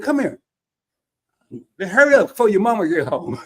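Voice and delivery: hushed hurry of a dad plotting a home remedy; mild mock urgency, rushing the boy; urgent dad. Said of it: "He said".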